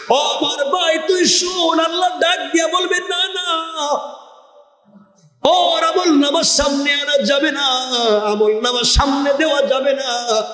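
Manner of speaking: high, ringing sermon cry; impassioned preaching. Acted. Preacher telling a brother of God's refusal, impassioned high cry. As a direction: cry it high with long held endings.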